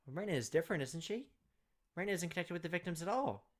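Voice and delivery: a hint of frantic denial; rising panic. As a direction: grasp at denials as dread climbs. Keiichi panics over his friends.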